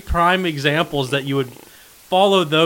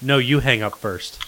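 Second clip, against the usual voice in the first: reluctant goodbye; 3 semitones lower, 4 dB quieter than usual. Retold or imitated. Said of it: "The one you're talking about is".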